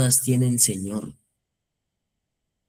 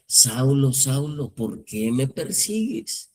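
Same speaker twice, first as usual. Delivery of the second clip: voice from heaven; slower than usual. Retold or imitated. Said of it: "empezó a oír una voz".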